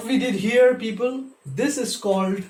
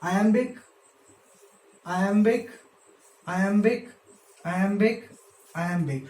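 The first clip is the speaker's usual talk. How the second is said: each "iambic" alone with a rising end, the last one falling; counting off feet. Shown as a demonstration. Teacher marking each foot for students, paced rising count.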